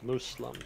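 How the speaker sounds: "Muslim" as MOOS-lum; Arabic-style "Muslim", oo vowel and s. Shown as a demonstration. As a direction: say "Muslim" with s, never z. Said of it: "with an, with an S".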